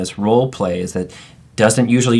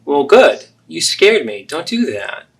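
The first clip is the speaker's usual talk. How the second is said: anxious mother; 6 semitones higher than usual. Acted. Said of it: "So there you have the three role plays".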